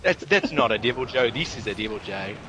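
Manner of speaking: broad, hammed-up Aussie accent; mock Aussie, starting high and loud; Australian accent. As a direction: put on a caricature Australian voice. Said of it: "You're thinking of Australia. They have the really shocking accents".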